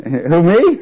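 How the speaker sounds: playfully taken aback; mock startled. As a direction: act caught off guard, for laughs. Voicing Gideon's startled reply.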